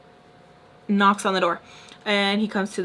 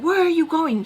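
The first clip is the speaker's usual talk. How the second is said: high-pitched imitated challenge; mock confrontation; 8 semitones higher than usual. Man grabbing her as she heads for the door, mock demanding. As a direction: imitate someone stopping her short.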